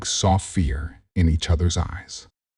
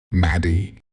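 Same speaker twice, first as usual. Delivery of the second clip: bellowed. A narrator's reading. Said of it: "Craig bellowed from the hallway".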